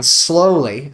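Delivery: "slowly" drawn out and emphasized; "slowly" stretched out as the key word; stress on slowly. Real, not acted. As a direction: lean on "slowly" with deliberate weight. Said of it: "I do emphasize that word slowly".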